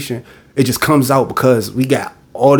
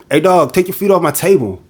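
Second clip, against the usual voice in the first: higher, blunt command; buddy's blunt order; 5 semitones higher than usual. Retold or imitated. Friend telling his buddy to take feet off the table, blunt. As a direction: bark it at your friend, mildly hammed-up. Friend scolds among the boys.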